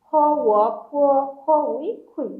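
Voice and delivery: "খ" and "উই" said apart, then joined as "খুই"; blending syllables. Shown as a demonstration. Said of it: "এরকম".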